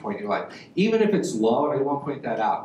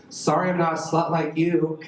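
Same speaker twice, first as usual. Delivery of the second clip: sibling insult; 3 semitones higher than usual. Acted. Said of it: "Siblings talk like this".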